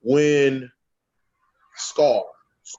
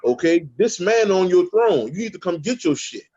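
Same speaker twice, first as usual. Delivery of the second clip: higher, scolding lioness telling him off; lightly voiced Nala, higher and bossy; 6 semitones higher than usual. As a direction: demand he come take his throne, pitched up. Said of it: "and Nala came over there".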